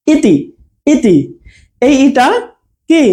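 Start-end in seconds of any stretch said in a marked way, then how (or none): 0.1-1.2 ইতি with a brief first vowel; short ই. Shown as a demonstration. Teacher showing the short vowel, brief ই in ইতি. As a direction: keep the opening ই of ইতি short. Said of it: "অল্প সময়ের জন্য উচ্চারণ হচ্ছে".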